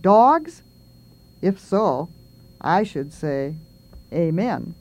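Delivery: measured, pause-filled cat's prayer; poem reading as a cat. Acted.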